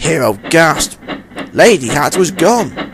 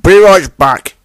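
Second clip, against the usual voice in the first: louder, higher quick call over the shoulder; hurried call; 5 semitones higher, 7 dB louder, slower than usual. A narrator's reading. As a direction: dash off, calling back. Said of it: "he said".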